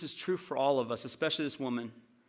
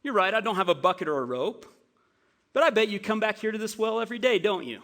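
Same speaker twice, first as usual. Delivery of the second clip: teasing Jesus; 5 semitones higher than usual. Retold or imitated. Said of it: "it would have sounded something like this".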